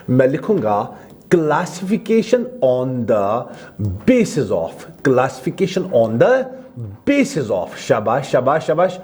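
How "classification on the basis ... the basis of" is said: the heading read word by word, slowly; slow dictation. Shown as a demonstration. Teacher dictates a heading for notes, slowly. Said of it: "teacher dictating heading".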